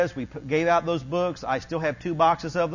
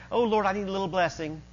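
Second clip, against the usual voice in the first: casual little prayer; 4 dB quieter, faster than usual. Acted. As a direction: ask lightly, as if it hardly matters. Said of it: "Not just".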